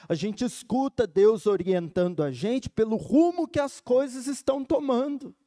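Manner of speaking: ordinary talk, nothing marked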